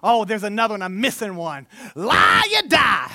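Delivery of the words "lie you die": mock church slogan. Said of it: "that's the one I'm looking for".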